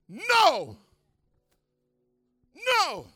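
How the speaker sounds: loud high flat refusal; Pharaoh refusing. Acted. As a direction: slam the door on him.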